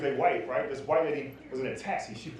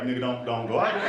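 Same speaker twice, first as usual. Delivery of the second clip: ancestors warning; 6 semitones lower than usual. Retold or imitated. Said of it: "my ancestors was like".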